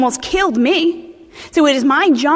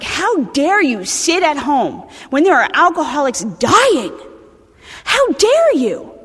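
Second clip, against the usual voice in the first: mock scolding; 2 semitones higher, slower than usual. Scolding absent members, quoted.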